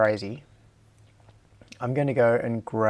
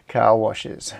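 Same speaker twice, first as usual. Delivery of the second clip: louder, firm restatement; 5 dB louder than usual. Real, not acted. Streamer repeats car washes aloud after whispering it.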